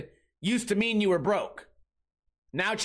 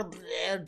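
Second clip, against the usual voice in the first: slobbering noise; 7 dB quieter than usual. Retold or imitated. Imitates slobbering kids.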